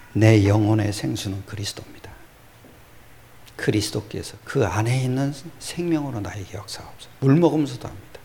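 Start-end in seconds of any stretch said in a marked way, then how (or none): 3.6-7.1 softly recited prayer; soft, brief personal prayer; retold prayer. Preacher shows his prayer over drinking water, softly prayed. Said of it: "물 먹을 때도 항상 기도합니다".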